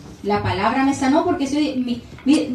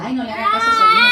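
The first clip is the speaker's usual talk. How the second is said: soothing parent; 7 semitones higher, 4 dB louder, much faster than usual. Retold or imitated. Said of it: "decían".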